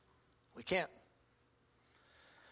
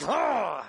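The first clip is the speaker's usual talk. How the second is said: frustrated groan; 3 semitones higher, 5 dB louder than usual. Retold or imitated. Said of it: "I got so frustrated".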